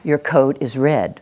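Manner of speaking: slow, falling statement of fact; assertive. Shown as a demonstration. Trainer leading the class to repeat after her, assertive. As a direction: state it slowly, with no doubt. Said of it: "we need the voice of no doubt".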